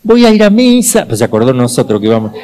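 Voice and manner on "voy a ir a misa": high, loud cry to God from the flames; shouting to God. Retold or imitated. Man trapped in the burning factory cries out to God, loud and high. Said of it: "Y gritó".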